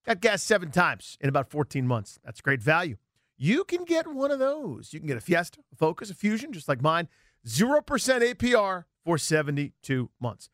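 upbeat live car dealer ad; radio ad read. Acted. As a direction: sell it like a radio pitchman.

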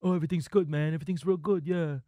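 lightly voiced raspy barber; imitating a raspy barber, easygoing. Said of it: "he's got a very raspy voice like that".

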